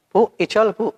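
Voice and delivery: put-on high, eager kid asking to swap marbles; a child begging the lady for a trade; childish pleading. Child coaxing mother to swap marbles, high and eager.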